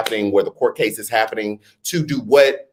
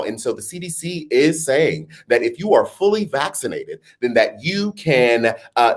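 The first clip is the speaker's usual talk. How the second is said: TV reporter voice. Acted. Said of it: "pretend T V reporter voice".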